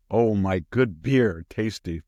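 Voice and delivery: slow mock relish; mocking Warren ad. Mocking Warren's beer commercial, slow and hammed-up. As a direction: savour it slowly like a fake ad. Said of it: "She goes".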